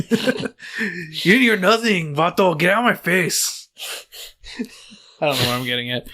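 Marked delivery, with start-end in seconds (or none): 0.1-3.7 higher, hammed-up Hispanic tough talk; drawn-out comic Hispanic accent; mock Hispanic accent. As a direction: warn them off in a put-on Hispanic accent. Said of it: "they hear me talk normal".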